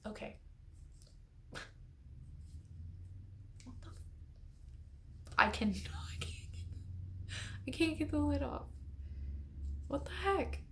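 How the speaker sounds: straining whisper, then high; struggling with a stuck lid; opening a stuck jar. Real, not acted.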